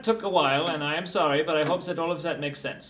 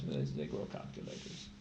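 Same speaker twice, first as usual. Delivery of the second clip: deep joke voice; 13 dB quieter than usual. Pretend.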